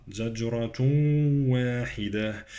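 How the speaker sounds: "زجرة" with echoed j, hummed into "واحدة"; qalqalah and idgham. Shown as a demonstration. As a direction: bounce the j of "زجرة", fuse the ending. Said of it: "قلقلة الجيم وإدغام".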